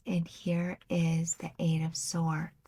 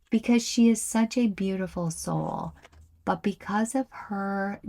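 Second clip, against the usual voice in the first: louder, rushed, welling up with feeling; getting emotional; 2 semitones higher, 4 dB louder than usual. Real, not acted. Reader moved by the Queen of Cups card, fast and emotional. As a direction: let the emotion push the words out fast. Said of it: "I'm getting all emotional".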